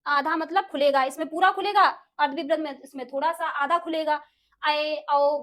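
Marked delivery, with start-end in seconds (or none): 4.6-5.4 ऐ and औ drawn out slowly; vowel demo. Shown as a demonstration. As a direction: stretch ऐ and औ for the class. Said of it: "बोल के देखिए". (ऐ, औ का धीमा उच्चारण)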